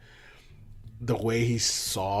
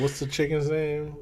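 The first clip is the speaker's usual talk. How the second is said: slow, higher southern drawl, lightly done; mock southern drawl; 8 semitones higher, 4 dB louder than usual. Quoting the detective to a friend in a mock southern accent. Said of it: "bullshit foghorn leghorn southern drawl".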